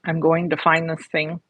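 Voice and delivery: talking around a piece of ice; ice in mouth. Real, not acted. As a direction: speak with ice in your mouth. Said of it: "I got a piece of ice in my mouth".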